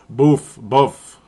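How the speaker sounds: trying "boof" first long, then shorter; attempted local pronunciation. Shown as a demonstration. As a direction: try out "boof, boof" with changing vowel. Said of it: "I still can't do it".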